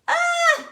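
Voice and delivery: high loud squeal; excited squeal. Real, not acted. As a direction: let out a sudden shriek. Squeals over hard work.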